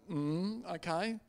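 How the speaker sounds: small, soft mm, okay; meek compliance. Retold or imitated. Pastor obeying an order to keep silent, meek and soft. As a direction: give in quietly. Meekly obeys the order to hush.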